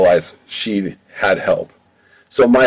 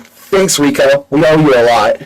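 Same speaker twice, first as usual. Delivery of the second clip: higher, louder relieved thanks; grateful thanks; 5 semitones higher, 4 dB louder than usual. Acted. Freed dancer thanks Rico.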